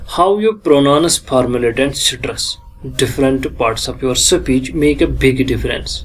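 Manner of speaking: measured lecture reading, word by word; slow, deliberate textbook reading; slow reading aloud. Acted. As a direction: read each English phrase slowly from the notes. Reads English text slowly.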